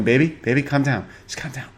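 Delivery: handcuffed husband begging his wife to calm down; pleading husband. Retold or imitated. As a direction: coax her like a nervous husband. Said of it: "her husband's just right there in handcuffs going".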